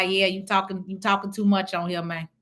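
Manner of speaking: ordinary delivery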